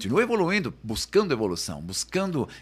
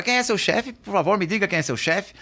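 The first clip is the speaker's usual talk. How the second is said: higher, louder acted question; retold questioning; 9 semitones higher, 5 dB louder than usual. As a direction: put the question insistently to an employee. Acts out Sam Walton questioning staff.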